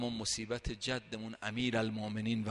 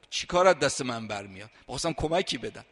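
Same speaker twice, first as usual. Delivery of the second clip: anxious tearful plea; 8 dB louder than usual. Retold or imitated. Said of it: "با اضطراب و گریه گفتم".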